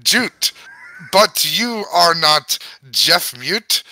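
put-on reading gibberish in an Irish accent; lilting Irish accent, storybook reading. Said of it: "now I'm fucking doing the Irish".

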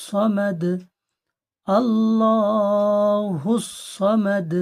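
slow, melodic tajweed chant; Quran recitation. Shown as a demonstration. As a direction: recite each verse slowly and drawn out. (ধীর সুরে কোরআন তিলাওয়াত)

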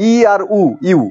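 ইউ split into ই and উ, then joined; sounding out syllables. Shown as a demonstration. Teacher showing students the two sounds in ইউ, sounded out. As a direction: say ই and উ apart, then blend to ইউ. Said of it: "প্রথম অক্ষরের উচ্চারণ হচ্ছে ইউ".

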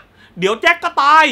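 high, loud, slow spoiler yell; imitated shout. Imagined stranger shouting Titanic's ending to the audience, mock yell. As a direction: call it out across the cinema. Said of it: "มีใครก็ไม่รู้ตะโกนมา".

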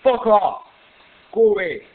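loud, real burst of alarm; alarmed shout. Real, not acted. Player to the figure under the shadow, alarmed shout. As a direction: shout to drive it away.

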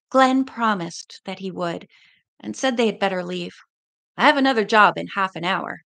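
steady read-aloud narration; story narration. A narrator's reading. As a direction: read the chapter to listeners. Reads the novel aloud.

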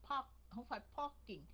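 PARKING with a puffed P in place of B; âm P sai. Shown as a demonstration. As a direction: show the mistaken P in PARKING. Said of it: "mà là barking". (đọc sai "parking" với âm P bật hơi)

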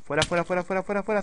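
rapid-fire, climbing in pitch; urgent shooing. Real, not acted. Player fending off a zombie, urgent shooing.

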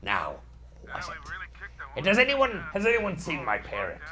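a hint of a salty pirate. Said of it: "So I'm talking like a pirate now".

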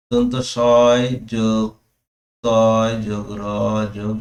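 dictated slowly part by part; slow teacher's spelling-out; broken into parts. Shown as a demonstration. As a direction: spell out দন্ত সয় যোগ তয় যোগ র slowly, like dictation. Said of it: "স্ত্রীকে ভেঙে উচ্চারণ করো".

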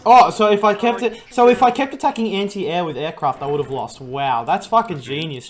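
sarcastic. Real, not acted. Mocks obvious advice from teammate.

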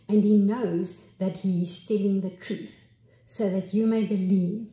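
measured, solemn reading; scripture reading. Acted. Preacher reading John aloud to the congregation. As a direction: read the passage with weight.

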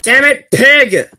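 high, slow exasperated shout; frustrated yell. Real, not acted. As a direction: curse at the pig. Frustrated yell at game pig.

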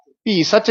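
ਭੀ ਸੱਚ run together without a pause; wrongly joined. Shown as a demonstration. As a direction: rush ਭੀ straight into ਸੱਚ. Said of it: "ਨਹੀਂ ਕਹਿਣਾ". (ਭੀ ਸੱਚ ਬਿਨਾਂ ਠਹਿਰਾ)

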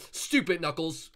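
slow, drawn-out jeer; mock scold. Sonic jeering at Knuckles, slow and mocking. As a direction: drag out the insult. Angry at seeker.

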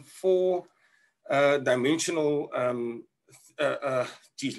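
winded, grabbing air between words; short of breath, pausing to breathe. Real, not acted. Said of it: "let me just catch my breath".

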